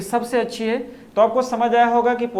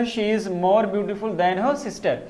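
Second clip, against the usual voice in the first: reads the example sentence slowly and evenly; slow dictation reading; much slower than usual. Shown as a demonstration. Teacher dictating an example sentence to the class, slowly. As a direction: spell the sentence out for the students, slow. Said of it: "जैसे कि दूसरे sentence में use किया गया".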